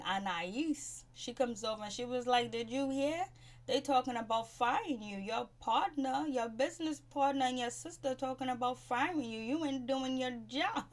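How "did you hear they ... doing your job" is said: higher, gleeful mock gossip; mock messy gossip. Imitating Anais stirring trouble with Ashley, mock gleeful. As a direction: play the troublemaker spilling it.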